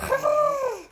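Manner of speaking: high laughing praise. Real, not acted. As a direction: laugh and cheer.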